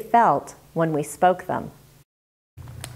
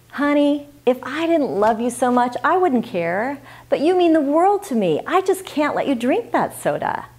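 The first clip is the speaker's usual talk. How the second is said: earnest and tender, a touch higher; loving; 5 semitones higher than usual. Shown as a demonstration. Mother telling her child she means the world, loving. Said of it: "Say it with love".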